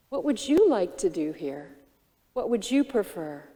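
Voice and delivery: a softened open question. Retold or imitated. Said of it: "My voice will soften".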